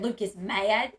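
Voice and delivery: imitating a tease, MAD stretched out; playful fake warning, mildly hammed-up; joking mock alarm. Retelling how sister joked on the phone, mock alarm. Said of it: "that she was joking".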